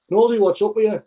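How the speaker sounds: mild mock call. Manager calling across pitch.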